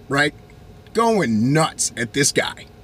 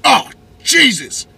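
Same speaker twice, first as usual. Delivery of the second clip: 1 dismayed gasp; 6 semitones higher, 5 dB louder, slower than usual. Retold or imitated. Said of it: "my initial instinct was like".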